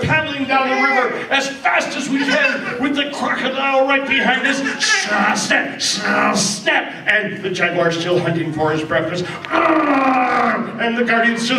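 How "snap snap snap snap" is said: snapping jaws. Acted.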